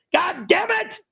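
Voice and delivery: shouting while banging the desk; slamming the desk. Real, not acted. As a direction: yell and slam the desk with each phrase. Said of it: "What did I tell you about slamming the desk?".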